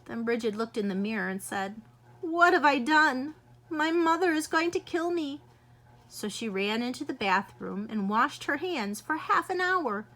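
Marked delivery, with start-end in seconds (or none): 2.2-5.4 put-on panicked girl.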